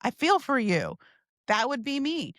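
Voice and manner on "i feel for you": 1 bubbly friend. Shown as a demonstration. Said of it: "I'd be like".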